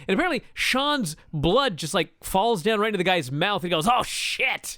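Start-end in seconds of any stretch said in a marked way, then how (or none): 3.9-4.8 a quick, higher yelp of disgust; startled curse. Retold or imitated. Cameraman under the cage gets blood in his mouth, startled yelp. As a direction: blurt it as blood lands in your mouth.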